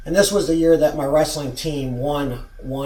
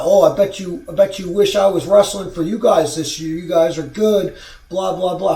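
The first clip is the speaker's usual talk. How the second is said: sneering parody of the boast, a bit louder; mock him like a smug braggart; scornfully imitating the rival's brag; mocking imitation; 2 semitones higher, 4 dB louder than usual. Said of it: "Who is this motherfucker gonna talk".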